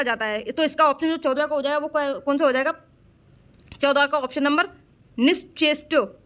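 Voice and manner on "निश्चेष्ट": निश्चेष्ट broken slowly as nish-chesht; deliberate, slow निश्चेष्ट; sounded out. Shown as a demonstration. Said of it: "यही गलत लिखा हुआ है".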